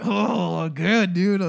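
retelling his sarcastic answer to his girlfriend, mock upbeat; sarcastic reply. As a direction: fake a cheerful "good" you don't mean.

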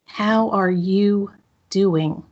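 drawn out slowly, inward and caring; slow, sincere question. Shown as a demonstration. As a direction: ask yourself gently, taking your time. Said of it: "ask this question to yourself".

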